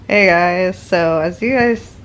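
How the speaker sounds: giggling through an apology; laughing. Real, not acted. Apologizing to viewers for the clip, laughing.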